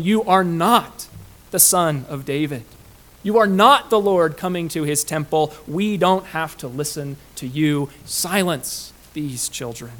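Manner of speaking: mildly indignant denial, punched at first. Acted. Preacher voicing temple rulers rejecting Jesus, mildly indignant. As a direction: voice the rulers' objection with firm emphasis. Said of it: "they were indignant".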